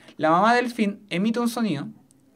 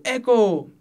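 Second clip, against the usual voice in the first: a mock call toward a mountain, a bit louder; shout at a mountain; 3 semitones higher, 5 dB louder than usual. Shown as a demonstration. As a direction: call it out so it echoes. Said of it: "yo le grito a una montaña y digo".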